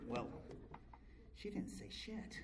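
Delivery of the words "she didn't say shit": hushed deadpan. Retold or imitated. Wife ignores him in car.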